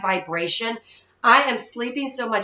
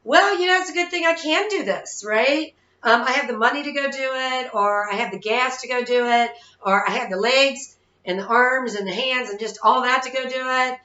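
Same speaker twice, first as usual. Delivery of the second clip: upbeat grateful self-talk; 3 semitones higher than usual. Retold or imitated. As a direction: sell it like a cheerful pep talk to yourself. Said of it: "if I change my attitude and I go".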